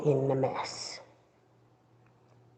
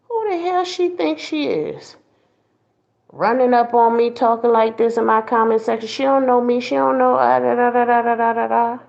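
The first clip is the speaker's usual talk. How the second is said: indignant; 5 semitones higher than usual. Retold or imitated. Retelling her own ego rant.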